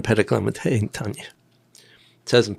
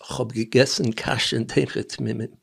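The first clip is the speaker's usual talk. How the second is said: put-on lightly Russian-accented Yiddish; a hint of a Russian accent in Yiddish; Russisch accent. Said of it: "I have a Russisch accent".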